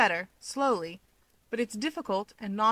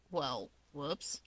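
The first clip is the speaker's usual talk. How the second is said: much lower and softer sheepish retreat; sheepish whoops; 5 semitones lower, 9 dB quieter than usual. Acted. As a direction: realise you blew it, mumble. Sheepish retreat after misstep.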